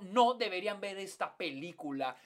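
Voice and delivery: hyped-up movie TikToker voice; overselling a horror film to viewers; clickbait video narrator. Retold or imitated. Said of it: "si tienes gente que dice".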